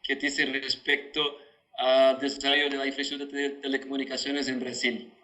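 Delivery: Spanish with a Brazilian Portuguese accent. Real, not acted. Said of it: "pido disculpas por el portuñol".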